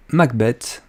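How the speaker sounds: Macbeth said with a light English accent; a shy attempt at an English accent on Macbeth. Shown as a demonstration. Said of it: "excusez mon accent anglais".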